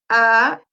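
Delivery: "ah" drawn out, ending on a rising pitch; segundo tono. Shown as a demonstration. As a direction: demonstrate a Mandarin second tone on "ah". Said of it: "El segundo tono va de arriba abajo". ("ah" alargado con tono que sube al final)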